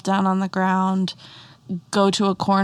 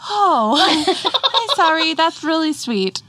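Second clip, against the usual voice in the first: laughing apology; 9 semitones higher than usual. Retold or imitated. Mom laughing as she apologizes to her daughter. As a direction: laugh while saying sorry.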